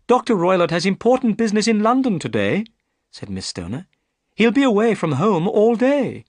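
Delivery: put-on a worried young lady pleading her case; Miss Stoner.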